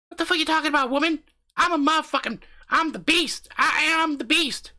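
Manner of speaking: high brash boast; macho character. Pretend. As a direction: puff up like a beast. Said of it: "I'm just getting in character".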